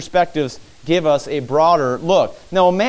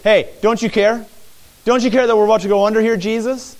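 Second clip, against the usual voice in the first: raised, rushed urgent plea; panicked plea; 5 semitones higher, faster than usual. Acted. A disciple rushing to Jesus in the storm, fast and urgent. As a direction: hurry the words out in fear. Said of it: "coming and saying".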